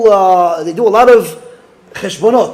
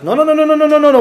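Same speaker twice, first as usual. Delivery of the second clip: flustered refusal; 8 semitones higher, 3 dB louder, much faster than usual. Retold or imitated. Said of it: "He goes".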